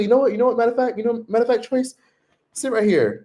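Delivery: spring the joke, high and cheeky; cheeky server. Retold or imitated. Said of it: "He's like".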